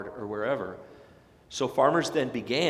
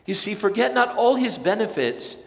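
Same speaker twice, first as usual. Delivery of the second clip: preaching loud; 7 semitones higher, 5 dB louder than usual. Acted. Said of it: "repeated later softly".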